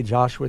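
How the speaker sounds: Joshua said the English way, with a J sound; English pronunciation. Shown as a demonstration. Explaining names to listeners, English Joshua with a J. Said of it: "that's the English way we say".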